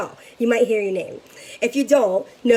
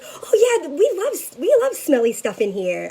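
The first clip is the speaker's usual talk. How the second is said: excited teller; 5 semitones higher than usual. Retold or imitated. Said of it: "she goes".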